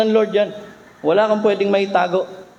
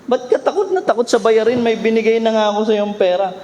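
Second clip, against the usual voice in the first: higher, faster teasing scold; mock scolding; 4 semitones higher, faster than usual. Giver of the ATM teases the fearful one, fast scolding. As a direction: chide a friend who forgot his money. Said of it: "babatukan nga".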